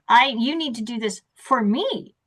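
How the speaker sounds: demanding teacher. Acted. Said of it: "I'm the teacher at the front of the class".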